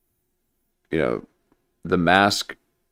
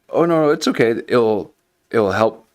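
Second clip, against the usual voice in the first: high, mock-soothing nurse voice, pitched up; nurse soothing the guy; 3 semitones higher than usual. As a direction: play the sneaky nurse calming him down, hammed up. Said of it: "and they're like".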